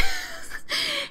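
a squealing laugh on the edge of a cry; laugh-cry up high; real nervous laughter. Real, not acted. Laughing during fight panic.

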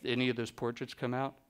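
lightly imitated low-key star; a hint of a laconic, understated celebrity voice; a singer. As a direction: mimic his low-key way of talking, just slightly. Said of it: "'Cause that's how he talks".

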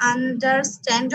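"আন্ডারস্ট্যান্ড" divided as un-der-stand; syllable by syllable. Shown as a demonstration. Teacher repeats the example word for learners, "আন্ডারস্ট্যান্ড" in syllables. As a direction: give each part of "আন্ডারস্ট্যান্ড" its own beat. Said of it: "আমার ভয়েসটাকে change করলাম".

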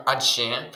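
«адже» с ударением на «же», адЖЕ; выдели конец слова «адже»; ударение на второй слог. Shown as a demonstration. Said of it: "наголос на другий склад".

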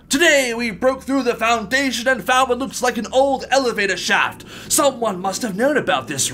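mildly irritated reading aloud; angry read. Real, not acted. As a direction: read it with a touch of aggression. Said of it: "that was a very aggressive and angry read".

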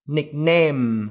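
"nickname" closed on a held m; final M. Shown as a demonstration. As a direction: close the lips and hum out the end of "nickname". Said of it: "ngậm miệng lại một chút". ("nickname" ngậm miệng ở âm m cuối)

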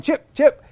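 high, loud bird chips; imitated bird chips. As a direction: chirp like a cardinal. Male cardinal calling out.

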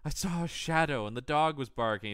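hammed-up fright; mock alarm. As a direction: pretend to be spooked. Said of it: "she's like".

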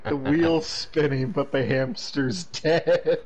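slow, breaking into laughter; laughing. Real, not acted. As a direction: deliver the punchline through a laugh. Laughing at own joke.

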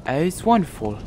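playful stereotypical British impression; stereotypical British accent. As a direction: imitate a hammed-up British villager. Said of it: "That's like the stereotypical British accent".

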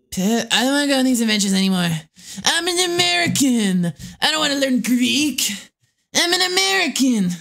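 high whiny put-on voice; a lightly put-on whiny brat; whiny character voice. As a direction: whine like a spoiled kid.

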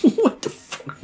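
high, slow nasal whine; neckbeard voice. Pretend. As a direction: go squeaky like a smug neckbeard. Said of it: "saying it like a neckbeard".

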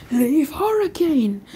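loud, drawn-out battle cry; calling out attack. Acted. Rock Lee calls his attack at Naruto, shouted. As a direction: shout the move name, stretched out.

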